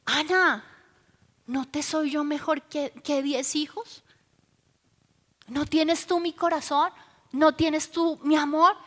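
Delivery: soft, gentle questions; tender consoling. Retold or imitated. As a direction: voice a husband gently comforting his wife. Voices husband consoling sad Ana.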